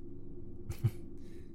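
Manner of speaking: soft, brief friendly chuckle; friendly laugh. A narrator's reading. Woman answers his confusion, soft friendly laugh. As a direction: let out a small, sincere laugh. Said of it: "a sincere and friendly laugh".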